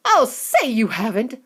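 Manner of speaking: a touch of an outraged mother; mother retorts at Wonka; crying out mother. Acted. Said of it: "cried Missus Beauregard".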